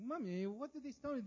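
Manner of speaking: put-on high, young child asking mommy; a light childlike question; child's voice. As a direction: lift it up like a curious kid. Child asking parent again.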